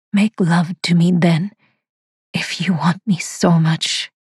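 breathy seductive whisper; husky whisper. A narrator's reading. Sonalika to her master, a husky whisper. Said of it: "she says huskily".

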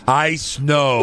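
mimicking a forced New York accent; slow, put-on New York drawl imitation; faked New York accent. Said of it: "Why is he faking a New York accent?".

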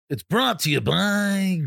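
hammed-up ad announcer, drawn out; mock sponsor read. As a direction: play at reading a sponsor. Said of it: "I'm just kidding".

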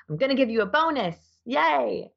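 high, quick, gushing announcement; mock excited announcement. Boss telling her employee about the bonus, high and gushing. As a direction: hype it up like handing over a prize.

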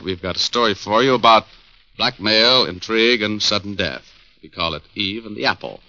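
genial announcer closing the show; friendly broadcast announcer read; radio host sign-off. Acted. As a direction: promote next week's story to the listeners.

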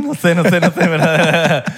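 laughing. Real, not acted. Laughing while talking.

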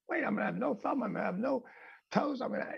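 put-on high, soft, tearful child's plea; mild retold sob in the voice. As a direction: let the boy's fear crack into tears. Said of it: "and I start to cry".

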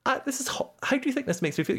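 mock upset. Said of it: "I got really angry at my friends".

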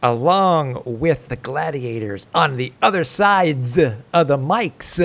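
smooth announcer read, fast start; radio host voice. Acted. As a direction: open the show like a radio host. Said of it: "in our radio voices".

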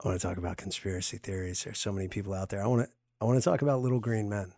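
low, quick hushed conspiracy talk. Pretend. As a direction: keep it hushed like a secret. Repeat of whispered conspiracy line.

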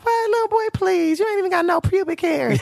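high, teasing put-down; mocking the little boy; sassy scoff. Her sassy reply to boy.

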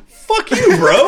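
very high, loud retold outburst; indignant outburst. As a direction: fire back in exaggerated, high-pitched outrage. Retort to a dismissive commenter.

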